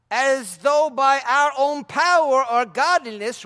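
slow, emphatic reading of Peter's words; slow preacher reading scripture; quoting Peter. Acted. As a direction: proclaim it slowly to the crowd. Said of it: "he responded to the people".

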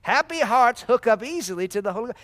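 congregation-style loud repeat. Shown as a demonstration. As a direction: say it back with energy. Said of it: "Say it".

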